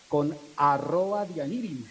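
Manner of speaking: light imitation of how the young talk; young people's slang. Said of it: "o como dicen los jóvenes ahora". (imitando a los jóvenes, agudo y lento)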